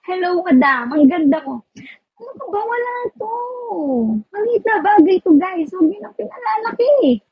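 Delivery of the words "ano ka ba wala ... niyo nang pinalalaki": higher, coy brush-off of a compliment; teasing false modesty; mock modesty. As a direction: play it bashful, waving the praise away.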